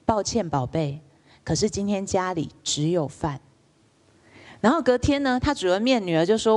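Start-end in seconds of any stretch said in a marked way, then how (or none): 0.1-3.4 a hint of a tender mother saying no; gentle mother. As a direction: calmly turn the child down, gently. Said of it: "他就会很温柔的跟她说".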